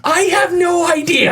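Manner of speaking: high, slow, dripping sarcasm; deadpan it with heavy sarcasm; super sarcastic. Retold or imitated. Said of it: "Like, super sarcastic".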